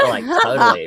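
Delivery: put-on high valley girl Karen. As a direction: squeal it like a Karen.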